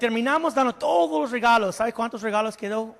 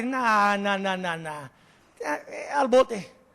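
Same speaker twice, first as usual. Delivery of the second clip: dismissive servant; 2 semitones lower, much slower than usual. Acted. Servant refuses mercy.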